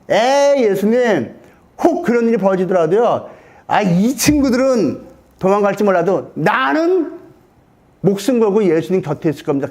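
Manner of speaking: mildly hammed-up brash promise; boastful bluster. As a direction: play a disciple talking big. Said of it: "큰 소리 뻥뻥 쳤습니다".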